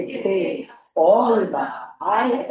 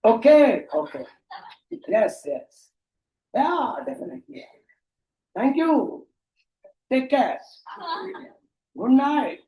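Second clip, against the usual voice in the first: mock Indian English small talk; 5 semitones higher, much slower than usual. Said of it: "हमारे भारतीय".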